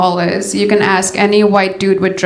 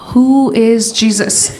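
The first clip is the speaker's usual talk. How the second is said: put-on slow, puzzled little girls' question; innocent schoolgirls; slower than usual. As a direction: ask it slowly like baffled kids. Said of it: "we were all like".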